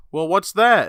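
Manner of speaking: high, loud baffled question; mock the brother's confusion; puzzled brother. Retelling dinner, brother asks puzzled about the drink.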